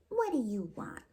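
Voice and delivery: put-on blunt, pushy kid asking what she wants; a child challenging a stranger, lightly voiced; demanding child. Gretel demanding what the witch wants, mildly voiced. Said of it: "the other one demanded".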